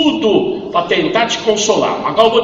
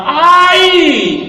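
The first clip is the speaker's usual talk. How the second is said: high retold cry of pain, louder; 11 semitones higher, 5 dB louder than usual. Dying man crying out in pain in the ambulance. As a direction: let out a sharp, high "ai" of pain. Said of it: "Então ele gritava".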